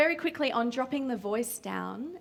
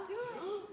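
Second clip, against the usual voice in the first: quick gasp; 9 semitones higher, 11 dB quieter than usual. Shown as a demonstration. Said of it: "And then, wow".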